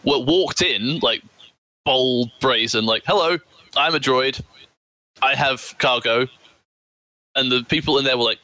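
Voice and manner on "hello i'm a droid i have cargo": a hint of a droid; robot voice. Droid introducing itself to guards.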